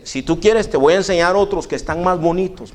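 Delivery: a hint of a skeptical clerk.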